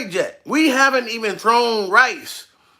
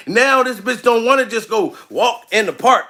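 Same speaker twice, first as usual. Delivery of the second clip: ordinary delivery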